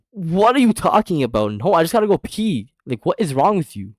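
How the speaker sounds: high-pitched, appalled retort; acted-out flustered indignation; indignant protest. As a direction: object in loud disbelief, pitch way up. Indignant reply to crude question.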